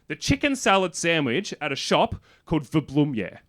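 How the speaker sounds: animated, enthusiastic local giving a tip. Retold or imitated. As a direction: gush about it with rising energy. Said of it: "became very animated".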